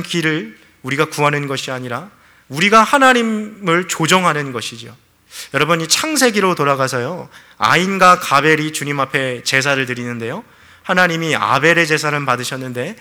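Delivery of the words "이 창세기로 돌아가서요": usual speaking voice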